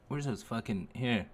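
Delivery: normal talking voice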